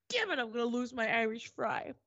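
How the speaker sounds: exasperated inner outburst; stressed cursing. Retold or imitated. Traveler sent over to customs, stressed cursing. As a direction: curse your rotten luck. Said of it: "I'm really stressed out".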